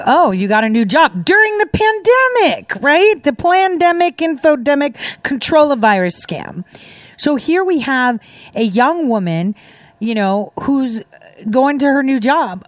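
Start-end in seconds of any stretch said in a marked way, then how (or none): 0.1-6.6 high, sarcastic gush; mock sarcasm. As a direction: needle her with fake sweetness. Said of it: "And I was like".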